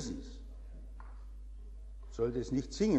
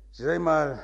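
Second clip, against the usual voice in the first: ordinary talk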